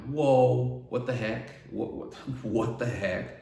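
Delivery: retold stunned disbelief, loud opening; freaking out. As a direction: act out a stunned freak-out, breaking into a laugh. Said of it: "So I was freaking out".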